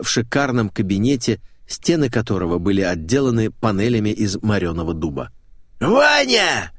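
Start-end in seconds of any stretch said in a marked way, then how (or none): 5.8-6.7 high, drawn-out cry of greeting; excited cry. A narrator's reading. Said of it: "закричал одетый".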